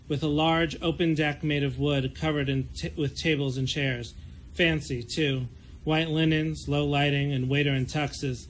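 calm, even novel reading; story narration. Acted. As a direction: read the chapter like an audiobook. Author reads her novel aloud.

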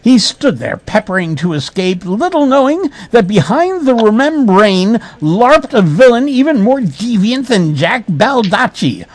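hammed-up suspense narration; melodramatic narration. A narrator's reading. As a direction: narrate it as overblown bad prose. Reads bad prose melodramatically.

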